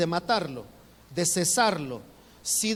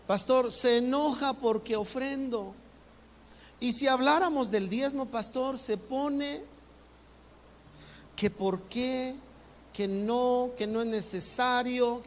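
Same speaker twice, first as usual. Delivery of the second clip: lightly played husband explaining his wife's objections; complaining husband; 4 semitones higher, slower than usual.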